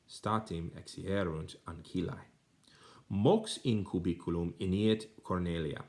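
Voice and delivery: careful, expressive reading of a Latin story; Latin reading aloud. Shown as a demonstration. Reads Latin passage aloud.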